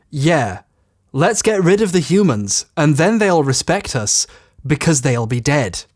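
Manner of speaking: deliberate reading, long pauses between phrases; slow, clear read-back. Shown as a demonstration. Critic reading a quote back to the writers, slow and clear. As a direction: spell it out slowly, phrase by phrase. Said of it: "read that back to you just to make that more clear".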